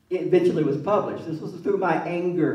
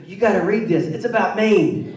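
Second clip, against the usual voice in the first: louder proud boast as mom; proud mother; 3 semitones higher, 6 dB louder than usual. Retold or imitated. Mother tells new neighbors to read the book, louder proud boast. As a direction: imitate mom pushing the book.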